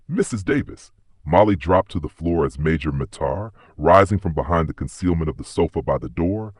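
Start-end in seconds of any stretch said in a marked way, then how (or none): 0.1-0.9 a high call, shouting a name from upstairs; shouted call. A narrator's reading. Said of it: "A voice shouted down".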